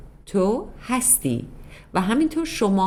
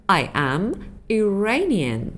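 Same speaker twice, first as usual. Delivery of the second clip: slow model sentence; much slower than usual. Shown as a demonstration. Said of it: "من ایرانی هستم".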